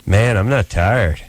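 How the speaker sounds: slow, lightly acted come-on; smooth-guy pickup line. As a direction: draw it out like a hopeful suitor. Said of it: "and then it's like".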